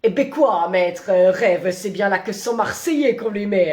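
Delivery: put-on drawling, low Marseille accent; hammed-up Marseille schoolteacher accent; bad Marseille accent. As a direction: badly fake a Marseille accent. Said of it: "tu le fais vraiment très mal".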